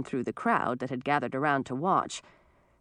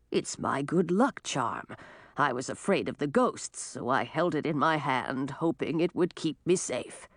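lightly voiced, slightly lower old man; meek old man; 2 semitones lower than usual. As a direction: explain meekly as a frail old man.

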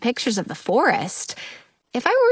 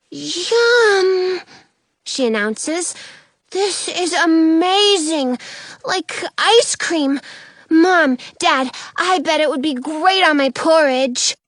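high, eager little cub voice, rushing at the end; a bubbly bear cub who can't wait to share; excited kid bear; 6 semitones higher, 3 dB louder than usual. Acted. Kid bear shows her parents the skateboard, gushing.

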